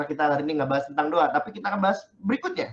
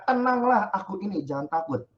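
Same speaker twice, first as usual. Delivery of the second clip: reassuring; 2 semitones higher than usual. Acted. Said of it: "Yesus berkata kepada mereka".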